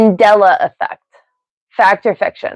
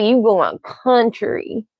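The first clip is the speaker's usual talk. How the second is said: slow mock Southern country accent, a little softer; badly faked country drawl; 5 dB quieter, slower than usual. Streamer on American accents, mock Southern country accent. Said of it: "that was such a bad impression".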